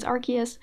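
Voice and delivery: Arceus with a hard K, "AR-kee-us"; pronunciation variant. Shown as a demonstration. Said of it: "however you wanna pronounce it".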